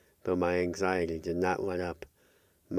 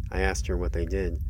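ordinary delivery, nothing marked

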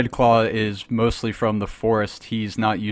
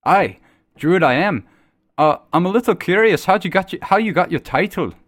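raised voice over the bar din; boisterous tavern talk; 7 semitones higher, 4 dB louder than usual. Acted. Druid asks the guard about his title, raised over the tavern noise. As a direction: speak up over the crowd. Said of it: "you guys are speaking somewhat boisterous".

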